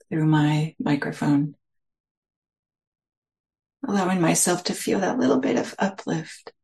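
unhurried meditation guidance with long pauses between phrases; guided meditation. Real, not acted. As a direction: gently guide listeners into settling, phrase by phrase.

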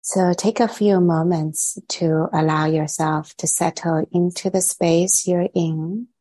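measured guided-meditation voice with long pauses. Real, not acted. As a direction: gently lead listeners inward, leaving long silences between phrases. Leads a meditation.

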